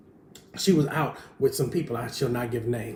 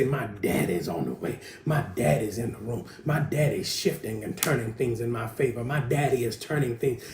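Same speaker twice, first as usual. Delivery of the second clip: say it with your chest; 2 semitones lower than usual. Shown as a demonstration. Preacher showing the congregation how to declare it, bold chest voice. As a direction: proclaim it proudly, no cowering. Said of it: "You got to say it with your chest".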